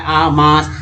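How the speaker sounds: मास with a long open aa; teacher's careful long-vowel मास. Shown as a demonstration. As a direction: sound out the aa, then मास. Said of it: "ए का उच्चारण क्या हो रहा है".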